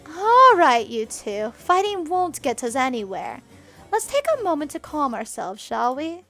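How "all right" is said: loud raised call; calling order. Acted. Governess stops the two girls, loud. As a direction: break it up. Tawa breaks up the fight.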